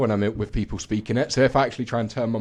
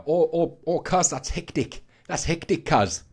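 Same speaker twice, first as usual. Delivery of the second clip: higher-pitched, drawn-out West Sydney slang; West Sydney accent; 8 semitones higher, slower than usual. Shown as a demonstration. Australian resident giving an example, West Sydney accent. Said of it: "like, the West Sydney accent".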